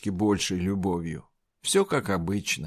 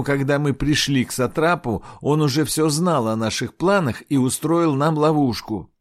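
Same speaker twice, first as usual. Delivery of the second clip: loud raised voice to crowd; shouting; 4 semitones higher, 3 dB louder than usual. Acted. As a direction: call out to the crowd indignantly. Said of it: "он крикнул".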